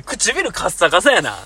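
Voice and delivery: 唇カッサカサやな said slowly, word by word; slow deliberate. Shown as a demonstration. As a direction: spell out 唇カッサカサやな slowly to show how it lands. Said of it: "女の子に対して言うのは結構あれやからな".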